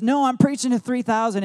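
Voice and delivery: preaching yell. Retold or imitated. Pastor answering the complaining lady in a loud, high preaching yell. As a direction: belt it out as if to three thousand. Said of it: "You don't have to yell".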